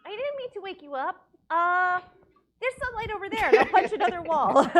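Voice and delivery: high-pitched pirate character voice. Acted. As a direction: apologize as a squeaky-high pirate. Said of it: "I'm no longer talking like a pirate".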